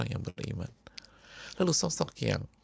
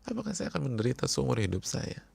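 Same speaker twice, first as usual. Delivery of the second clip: crying friend. Acted. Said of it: "sambil nangis dia bilang".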